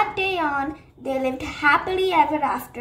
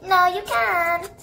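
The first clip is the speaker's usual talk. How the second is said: teasing tag taunt, slow; 4 semitones higher, slower than usual. Acted. Sunny teasing during tag.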